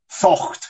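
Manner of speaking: THOCHT said slowly with a throaty CH; isolated, careful THOCHT; Scots demonstration. Shown as a demonstration. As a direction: model THOCHT for a learner, CH at the back of the throat. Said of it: "try, try that one for me".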